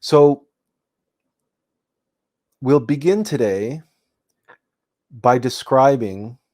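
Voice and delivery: measured meditation talk with long pauses; meditation guide. Real, not acted. Meditation teacher introduces the first technique to listeners, measured and unhurried. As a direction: explain unhurriedly, pausing between phrases.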